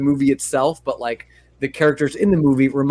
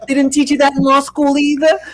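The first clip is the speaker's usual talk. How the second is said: much higher, laughing through the taunt; laughing mockery; 9 semitones higher, 4 dB louder than usual. Mona Lisa schooling Vinny, taunting through laughter. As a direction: tease him while cracking up. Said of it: "she fucking schools him".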